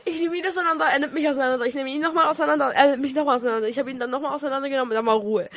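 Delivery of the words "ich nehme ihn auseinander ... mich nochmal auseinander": laughing. Real, not acted. Laughing about mutual roasting.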